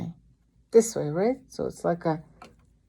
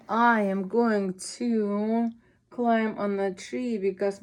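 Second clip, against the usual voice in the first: put-on baby cat voice; 3 semitones higher than usual. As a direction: play a frightened little kitten stuck up a tree. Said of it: "imagine this is baby cat".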